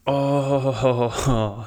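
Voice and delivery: said through a yawn. Real, not acted. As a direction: let a yawn stretch the word. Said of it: "I keep yawning".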